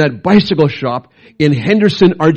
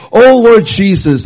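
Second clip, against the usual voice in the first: slow, raised cry to the Lord; retold shout; 5 semitones higher, 4 dB louder, slower than usual. Dying pastor crying out to Jesus, slow and raised. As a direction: call out to Jesus with the last breath. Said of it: "he shouted out".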